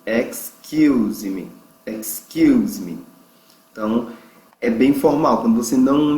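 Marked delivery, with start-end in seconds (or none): 0.0-3.0 "excuse" drawn out slowly, weight on the second syllable; stress on CUSE. Shown as a demonstration. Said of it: "Veja que a sílaba forte é o Q". (ênfase na segunda sílaba de "excuse", bem devagar)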